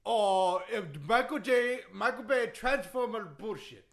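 put-on indignant accented wrestler rant; Iron Sheik. Wrestler disputing history with the host, indignant accented rant. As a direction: complain in broken English. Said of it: "that Iron Sheik impression".

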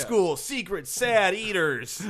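loud, slow movie-trailer announcer; dramatic announcer voice. Pretend. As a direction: intone it like a film title. Dramatic title-style repeat.

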